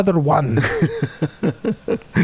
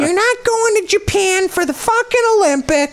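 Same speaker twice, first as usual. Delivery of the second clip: parent voice. Pretend. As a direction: play the angry parent, pitched up. Voicing parent forbidding Olympics.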